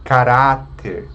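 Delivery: Caráter slowly, weight on "rá"; penultimate stress. Shown as a demonstration. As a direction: stretch the middle syllable of Caráter. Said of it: "a penúltima sílaba forte". (Caráter devagar, com "rá" forte)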